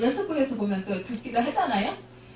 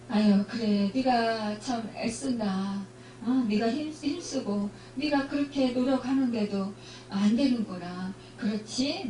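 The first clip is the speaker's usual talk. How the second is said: tender fatherly God; 3 dB quieter than usual. Pretend. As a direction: reassure a struggling child, gently. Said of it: "화내고 야단치는 분이 아니라는".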